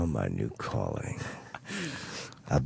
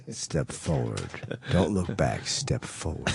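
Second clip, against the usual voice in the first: radio voice; slower than usual. Shown as a demonstration. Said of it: "Stop talking like that".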